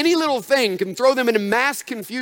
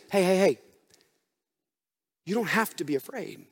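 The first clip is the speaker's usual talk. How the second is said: comforting. Shown as a demonstration. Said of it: "What he's saying is this".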